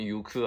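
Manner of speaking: 行く pronounced "yuku"; yuku reading. Shown as a demonstration. Teacher voicing a student's question, 行く read as "yuku". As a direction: start 行く with a "yu" sound. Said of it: "是不是可以念成行く啊".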